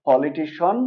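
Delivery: "পলিটিশন" with a rising one-syllable shon ending. Shown as a demonstration. Teacher lists the corrected words, "পলিটিশন" ending in shon. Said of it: "এটা হলো".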